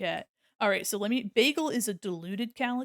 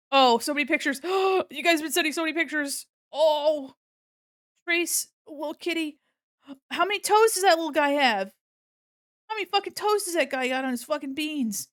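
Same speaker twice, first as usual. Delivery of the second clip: higher, louder excited cooing over pictures; excited gushing; 6 semitones higher, 5 dB louder than usual. Real, not acted. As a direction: gush at cute cat photos sent in. Gushing over viewers' cat pictures.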